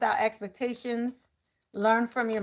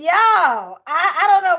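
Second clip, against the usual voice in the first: laughing; 6 semitones higher, 9 dB louder, slower than usual. Real, not acted. Laughing teary.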